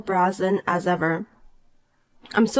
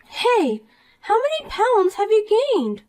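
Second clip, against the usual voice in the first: put-on bright, higher voice of a smug mean girl; snide rich girl; 13 semitones higher than usual. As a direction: talk down to her with sweet contempt. Poppy mocks weight.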